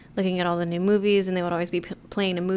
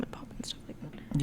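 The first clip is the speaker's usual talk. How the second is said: whispering; 4 semitones lower, 14 dB quieter than usual. Real, not acted. Whispered aside.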